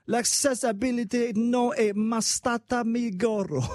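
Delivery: hammed-up Italian accent shouted; mock Italian shout. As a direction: belt out the broken Italian slowly like a grand speech. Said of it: "Butchering Italian right now".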